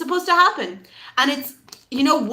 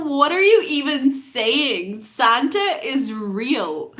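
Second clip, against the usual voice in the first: drawn-out mock disbelief; dumbfounded; slower than usual. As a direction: laugh it off slowly, incredulous. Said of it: "like, dumbfounded by these children".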